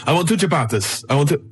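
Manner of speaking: lightly put-on, muddled Italian accent; attempted Italian accent. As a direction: have a shaky go at an Italian accent. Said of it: "I don't know if that's Italian".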